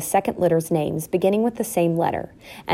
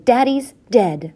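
high, slow, blunt announcement; sharply; 5 semitones higher, 4 dB louder, slower than usual. A narrator's reading. Mother bluntly tells the children, sharp. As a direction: spell it out slowly with impatience. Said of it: "said Hyacinth sharply".

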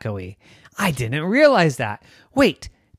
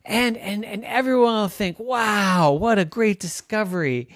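very high, fast, excited gush; bubbling over with excitement; thrilled; 9 semitones higher than usual. Acted. Girl who found a singing cave, excited gush. Trisha gushes to sister.

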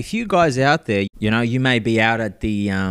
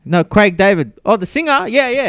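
higher, a little louder; retold insistence; 7 semitones higher, 4 dB louder than usual. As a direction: push the name like it's obvious. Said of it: "They don't know Craig David".

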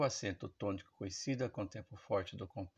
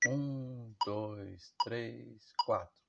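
counting in; much slower than usual. Shown as a demonstration. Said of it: "Então vamos lá?".

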